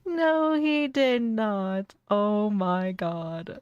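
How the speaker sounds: slow, drawn-out shock; stunned disbelief. Real, not acted. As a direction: let the disbelief stretch out. Shocked reaction to the arrest.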